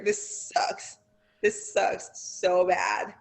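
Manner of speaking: mild retold pained mumble, drawn out slowly; pained groan. Lying hurt after the table, telling her friend it hurts, mild pained drawl. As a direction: let it drag out, a hint of hurting.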